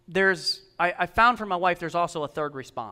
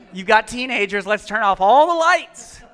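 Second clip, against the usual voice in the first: mock-eager suggestion, last phrase stretched and louder; mock enthusiasm; 6 dB louder than usual. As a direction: act out a foolish bright idea. Mocking the leaders' careless idea.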